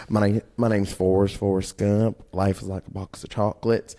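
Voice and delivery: a hint of Forrest Gump; Forrest Gump impression. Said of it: "Do Forrest Gump".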